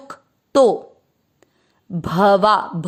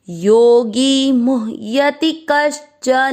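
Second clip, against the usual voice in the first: slow verse recitation; much slower than usual. Shown as a demonstration. Teacher reciting the Gita line slowly for students to follow. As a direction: chant each syllable of the verse slowly and evenly. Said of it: "second चरण repeat करेंगे".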